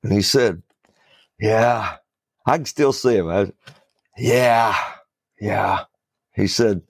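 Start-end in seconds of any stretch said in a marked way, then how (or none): 1.4-1.9 lightly imitated "Yeah" pushed through the teeth; a mild hint of a mafia collector saying "Yeah"; talking through teeth. Mafia collector friend answering, mild through-the-teeth imitation. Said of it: "he talked through his teeth". 4.2-5.8 lightly imitated "Yeah" pushed through the teeth; a mild hint of a mafia collector saying "Yeah"; talking through teeth. Mafia collector friend answering, mild through-the-teeth imitation. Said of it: "he talked through his teeth".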